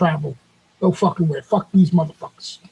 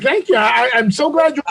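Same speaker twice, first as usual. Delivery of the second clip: higher-pitched, gushing fake thanks; mock gratitude; 3 semitones higher than usual. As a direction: thank them with hammed-up appreciation. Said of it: "You tell me you appreciated that?".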